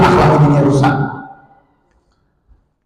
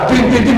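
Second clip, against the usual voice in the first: higher-pitched honking syllables; imitated car horn; 7 semitones higher than usual. Preacher mimicking cars honking at pedestrians, imitated horn. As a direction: honk like an impatient car.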